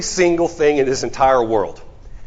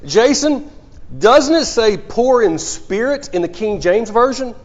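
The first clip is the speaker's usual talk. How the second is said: lifted voice; 6 semitones higher than usual. Retold or imitated. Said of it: "he lifted his voice".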